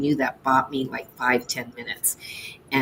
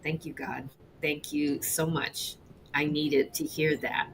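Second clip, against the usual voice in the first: retelling a quiet prayer after the call, softer; quiet thanks; 8 dB quieter than usual. Retold or imitated. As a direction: murmur thanks to God softly.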